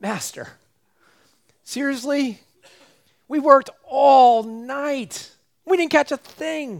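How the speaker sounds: mock very high, begging, exasperated pleading voice. Retelling Peter answering his Master after a night without a catch: imitating Peter pleading. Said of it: "you can almost hear the pleading in Peter's voice".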